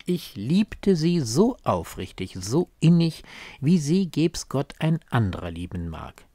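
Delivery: hoch angesetzt, am Ende fallend; beiläufiger, ehrlicher Wunsch. Acted. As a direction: einen ehrlichen Wunsch leicht dahinsagen. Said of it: "klingt in seiner Beiläufigkeit nach einem ehrlichen Wunsch". (leicht und aufrichtig zitiert)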